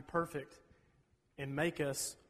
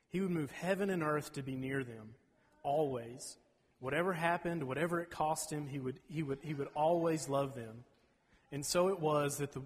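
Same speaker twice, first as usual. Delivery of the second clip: put-on reading a children's Bible story aloud; storybook reading voice; story narration. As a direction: tell it like a gentle bedtime story.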